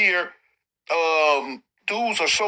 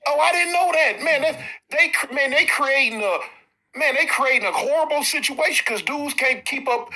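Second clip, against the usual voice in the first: surprised; 6 semitones higher than usual. Real, not acted. Reacts to spending limit news.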